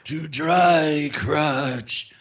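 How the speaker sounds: slow, drawn-out evil incantation; faint voice. Pretend. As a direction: intone it like an ancient spirit. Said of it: "a faint voice from her crotch going".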